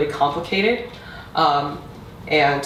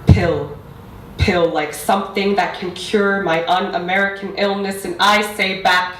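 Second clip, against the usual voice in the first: measured, deliberate poetry recital; spoken-word poetry. Acted. Poet performing own piece on language for an audience, spoken-word recital. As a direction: recite it line by line with weighted pauses.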